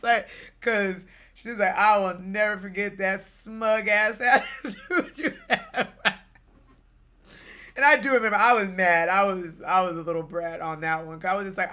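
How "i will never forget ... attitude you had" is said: laughing quote. Real, not acted. Quoting mom, laughing.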